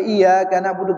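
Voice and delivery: "iya" with one undoubled y; single ya. Shown as a demonstration. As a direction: say "iya" lightly, without tasdid. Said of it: "iya-nya sa". ("iya" dibaca dengan satu ya)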